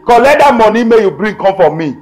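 wife drives her husband out, shouting; angry scolding. Acted. Wife throws husband out of the house, angry and loud.

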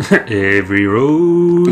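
very slow, drawn-out mock-grave country English intoning; a hint of a grave narrator; mock solemn. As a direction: stretch the words like a portentous voiceover. Quoting the game's motto slowly.

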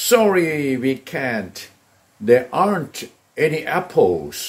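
slow, clear drill sentence; teacher modelling slowly; slow model answer. Shown as a demonstration. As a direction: say each word slowly for students. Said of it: "เราก็บอกว่า".

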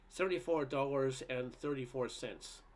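slow, measured pronouncement; grand announcement. A narrator's reading. Repairman announcing the bill to a housewife, grandly. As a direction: announce it slowly, like a stage actor. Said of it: "in a voice that would have put Rex Harrison out of work announced".

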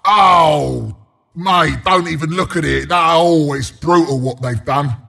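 low, pained sympathy; mock dismay. Announcer warns mate off brutal sight, mock dismayed. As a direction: shield a mate from an awful sight. Appalled at fallen tower.

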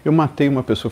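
high, pleading panic; desperate friend. Retold or imitated. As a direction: plead like someone who just did something terrible. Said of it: "ele liga desesperado". (amigo desesperado no telefone, em pânico)

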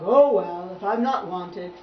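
loud, offended frog voice; huffy bullfrog. Acted. Frog ignored by Tubby, loud and huffy. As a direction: huff it out as a slighted frog.

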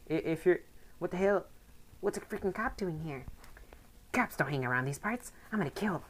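lightly voiced angry thug; mild menace, read with scorn; a hint of a threatening villain; voicing a game thug.

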